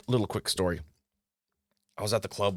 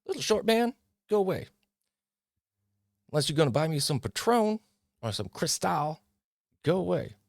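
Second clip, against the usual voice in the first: mock snooty girl; 9 semitones higher than usual. Vlogger mimics a girl dismissing a short guy at the bar. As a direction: brush him off like a snobby girl. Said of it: "you go up to girls and go".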